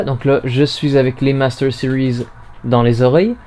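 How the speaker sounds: dull, muffled binaural sound. Real, not acted. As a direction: voice dulled by ear mics. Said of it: "ma voix est plus sourde".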